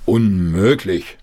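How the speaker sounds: a touch of a slow, scolding father; understated stern Unmöglich; mild scolding. Acted. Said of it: "schimpfte der Vater".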